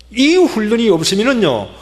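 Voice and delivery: usual speaking voice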